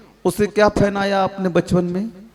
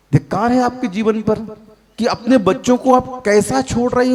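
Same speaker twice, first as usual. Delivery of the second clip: "धिक्कार है" repeated higher, faster and harder; louder fast rebuke; 5 semitones higher than usual. Real, not acted. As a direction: hammer "धिक्कार है आपके जीवन पर" home as a rebuke. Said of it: "हाँ". (तेज़ और ऊँची फटकार)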